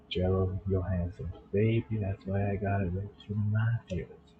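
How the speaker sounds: put-on light New York accent; a hint of New York accent. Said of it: "I'll try to do a New York accent there".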